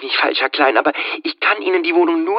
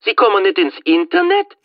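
ungläubig; 10 semitones higher than usual. Acted. Bankangestellte ungläubig.

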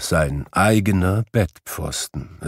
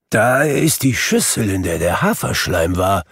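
excited cry. Acted. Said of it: "rief Scrooge".

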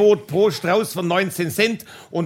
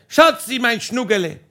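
calling sweet nothings from the roof; 4 semitones higher than usual. Retold or imitated. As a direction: call the pet names across the garden. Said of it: "Und ich hab geschrien".

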